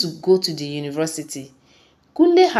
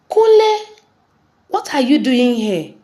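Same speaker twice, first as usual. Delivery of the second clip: much higher and louder, an outraged yell; furious shout; 7 semitones higher, 7 dB louder than usual. Acted. Father catching uncle in daughter's room, furious shout. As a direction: roar the name in shock and anger. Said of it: "Mister Shegu shouted".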